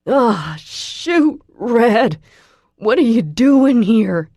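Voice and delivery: loud, high startled yell; shocked yell. A narrator's reading. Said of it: "he yells at me".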